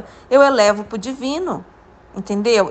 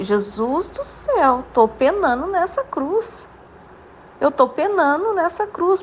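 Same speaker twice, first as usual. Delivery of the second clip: slow, much higher wailing prayer; mock lament; 5 semitones higher, slower than usual. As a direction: drag it out like a suffering plea to heaven. Desabafo lamentoso em oração a Jesus. (lamento arrastado e agudo, pedindo a Jesus)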